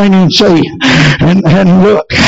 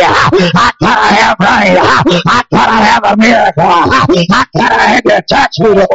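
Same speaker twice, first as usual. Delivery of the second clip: rising, shouted revival preaching; hoarse-edged revival shout cadence; full-force preaching. Acted. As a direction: preach it hard and build the crowd up. Preacher builds to full cry.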